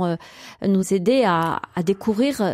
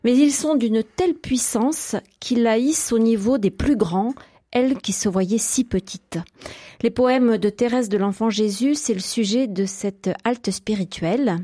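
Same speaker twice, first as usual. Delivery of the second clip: measured presenter read over the opening; scripted radio introduction. Acted. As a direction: introduce the programme like a radio host. Host reads scripted programme introduction.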